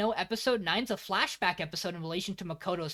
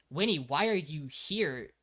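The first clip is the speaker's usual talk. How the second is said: slow, measured "Winnie, why are you here"; imitating a grave, weighted question; manga-style reproach; 2 semitones lower than usual. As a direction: ask it slowly and seriously. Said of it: "in the manga, this scene would be portrayed as".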